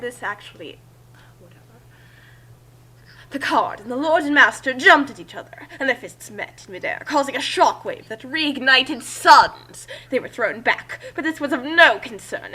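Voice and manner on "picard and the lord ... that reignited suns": hammed up. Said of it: "could probably ham it up a bit more".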